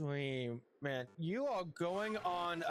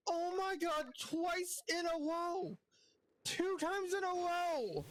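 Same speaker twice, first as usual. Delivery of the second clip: shocked laughter; 10 semitones higher than usual. Real, not acted. Shiny hunt disbelief.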